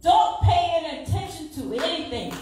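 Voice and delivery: rising, building divine command; preacher voicing the Lord's words to her. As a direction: lift it up as God speaking. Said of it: "I heard the Lord speak to me".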